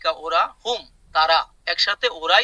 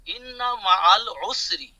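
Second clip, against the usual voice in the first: slow recitation; 2 semitones higher, slower than usual. Shown as a demonstration. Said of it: "teacher recites verse for students".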